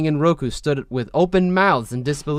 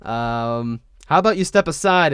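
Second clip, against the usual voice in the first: campy flirt; 3 semitones higher, 3 dB louder than usual. Retold or imitated. Campy Wan voice continued.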